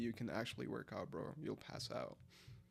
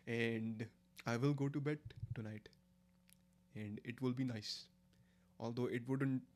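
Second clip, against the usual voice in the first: careful, deliberate Indian accent; 4 dB quieter than usual. Shown as a demonstration. Streamer telling chat about tonight in an Indian accent. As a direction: demonstrate an Indian accent, pausing between phrases. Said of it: "I can still do Indian accent".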